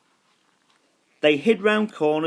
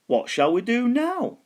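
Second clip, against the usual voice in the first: much higher, sing-song skeleton voice; a bored skeleton looking for fun; big skeleton voice; 13 semitones higher than usual. A narrator's reading. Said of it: "he said".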